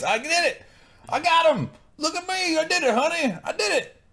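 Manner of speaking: high, loud, excited squeals; giddy mock triumph. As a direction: crow like a proud little kid.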